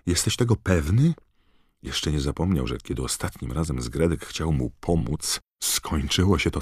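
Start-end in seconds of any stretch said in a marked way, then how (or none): 0.1-1.1 feverish question. A narrator's reading. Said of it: "powiedział gorączkowo Harry".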